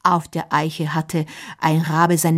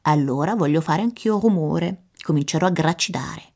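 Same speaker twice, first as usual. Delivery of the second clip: croaking kra calls then fast talk; a crow joining the racket; raven caws. Acted. The raven caws to join the noise, croaky.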